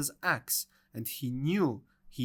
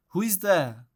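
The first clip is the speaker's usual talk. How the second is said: a mild raised call through the door; Granny calling out; 4 semitones higher, 5 dB louder than usual. Acted. Sick Granny calls to the visitor at her door, raised voice. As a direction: call out to the knock, a little louder. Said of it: "called Granny".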